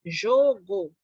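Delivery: "jogo" said slowly, split jo-go; slow syllable split. Shown as a demonstration. Teacher showing children how to split "jogo". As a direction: pull "jogo" apart into its syllables. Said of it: "Como que eu vou separar a sílaba?".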